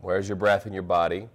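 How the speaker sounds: measured meditation guidance with long pauses; guided meditation. Acted. Teacher leading a class into breath observation, guided meditation. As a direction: guide them gently into observing.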